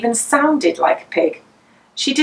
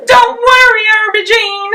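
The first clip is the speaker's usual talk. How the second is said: comforting; 12 semitones higher, 6 dB louder than usual. A narrator's reading. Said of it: "she comforted the baby pig".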